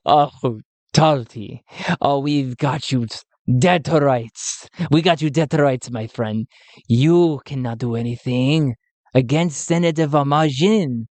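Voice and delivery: lightly voiced gloating villain; Vicente's new voice. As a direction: gloat over the caught prisoner. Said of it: "I'm changing his voice".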